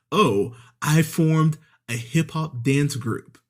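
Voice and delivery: slow, drawn-out announcement; lightly voiced, proud and slow; a hint of a smug husband, slow; mock proud husband. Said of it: "he goes ahead and goes".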